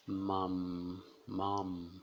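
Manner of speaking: Mom closing on a humming M; Mom, hum the M; nasal final M. Shown as a demonstration. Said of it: "nasal, né?". (Mom com M nasal)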